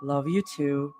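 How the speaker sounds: soft, low and steady; warm. A narrator's reading. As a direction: say it calm and tender. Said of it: "her tone warm, steady".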